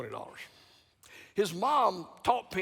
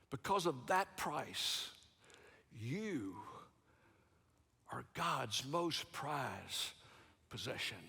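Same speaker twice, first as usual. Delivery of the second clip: much softer, dragged-out words; hushed and slow; 4 semitones lower, 10 dB quieter, slower than usual. Real, not acted. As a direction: let each word land softly. Preacher applies point, hushed.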